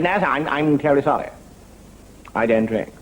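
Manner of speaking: lightly voiced apologetic junior officer; a hint of upper-crust subaltern; young Sandhurst gentleman. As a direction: decline politely as a mock British lieutenant. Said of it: "a young gentleman just finished in Sandhurst".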